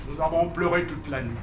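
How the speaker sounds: soft, low, quick refrain; hushed recitation; subdued lament. Acted. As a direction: let it drop to a sorrowful aside.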